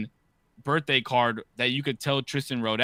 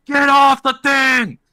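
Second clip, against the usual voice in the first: loud, high, slow yelled order; loud, slow shout of the order; retold shout; 14 dB louder, slower than usual. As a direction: bark it at the kids like a fed-up dad. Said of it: "And I, I did it loud".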